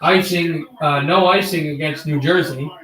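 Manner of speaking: hockey announcer call; play-by-play. Acted. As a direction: call the game like a broadcaster. Mock hockey play-by-play over game.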